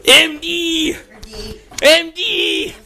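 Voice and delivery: loud high call across the room; calling from far away. Acted. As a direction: shout his name to the far side. Calling loudly while searching.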